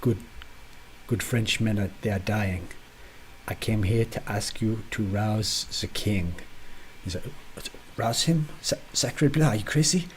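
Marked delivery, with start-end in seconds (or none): 0.0-6.4 bad French accent, lightly done; hammed-up French accent. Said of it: "a French accent". 7.5-10.1 put-on shocked French accent, higher; startled outburst in a bad French accent. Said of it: "a French accent".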